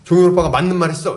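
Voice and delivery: retold no-nonsense rebuke, firming up at the end; stern correction. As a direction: lightly imitate a leader setting friends straight. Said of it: "정색을 하면 딱 얘기를 했다는 거예요". (정색하고 바로잡는 리더를 흉내 내듯)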